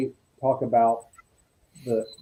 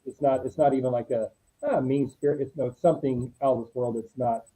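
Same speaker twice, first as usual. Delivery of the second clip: grave retold warning, halting and growing softer; dead serious; 4 dB quieter than usual. Colleague relaying John's description of an evil thing, dead serious. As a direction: search for the words, sinking softly and seriously. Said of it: "he was very dead serious".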